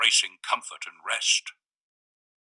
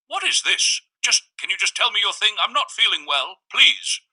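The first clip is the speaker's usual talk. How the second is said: higher, strained pleading; narrator's pleading voice; 10 semitones higher, 4 dB louder than usual. A narrator's reading. Narrator begging the visitor to stop the game, high and strained. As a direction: beg him to just get to it, pitched up.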